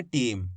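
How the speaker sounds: टीम said simply, closing on म; simple ending. Shown as a demonstration. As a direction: end टीम on म with no vowel after it. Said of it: "मात्रा नहीं है तो simple पढ़ देंगे".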